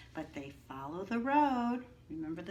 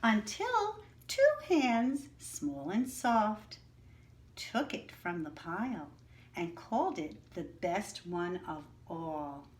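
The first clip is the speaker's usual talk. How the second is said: story narration. Acted. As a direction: read it like a bedtime story to the class, building up the first words. Reads picture book aloud.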